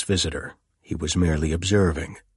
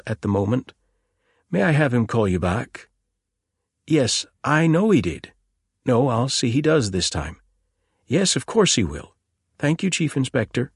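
put-on higher, eager young policeman; young constable voice; 6 semitones higher, 3 dB louder than usual. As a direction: play the keen young constable. Constable polite on the phone.

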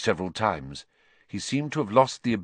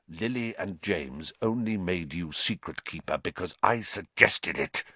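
venomous hiss; 2 semitones lower, 5 dB quieter than usual. Acted. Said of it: "Black hissed".

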